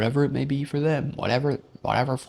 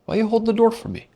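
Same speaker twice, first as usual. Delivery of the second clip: much higher and louder hammed-up question; mock guy voice; 12 semitones higher, 7 dB louder, faster than usual. The guy demanding why he held the door, high mock voice. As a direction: squawk the accusation. Mocked guy's retort.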